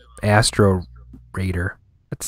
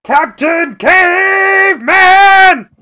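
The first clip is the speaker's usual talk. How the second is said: high, slow, loud cartoon caveman shout; Captain Caveman; 6 dB louder, much slower than usual. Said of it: "Anybody here do a Captain Caveman impression?".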